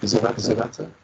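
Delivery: distorted, gurgling microphone sound; garbled mic. Real, not acted. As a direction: speak through a broken, garbled mic. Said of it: "No, it's still gar".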